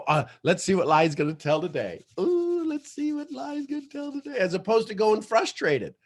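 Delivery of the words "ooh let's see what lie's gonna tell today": eager. Shown as a demonstration.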